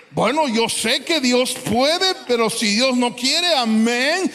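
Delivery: slow, earnest declaration of trust; faithful surrender. Retold or imitated. Believer declaring trust in God, slow and sincere. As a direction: affirm it slowly with conviction. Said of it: "cuando alguien dice".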